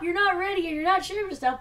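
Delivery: lightly voiced robot echoing back; Smokescreen repeating. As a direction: parrot the beeps back. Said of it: "It goes basically exactly like that".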